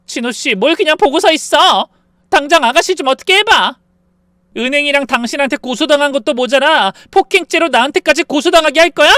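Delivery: loud, high frantic yelling; wife yelling at frozen husband; crying shout. A narrator's reading. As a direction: scream at him for help. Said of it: "울면서 그런 남편을 향해 소리쳤어요".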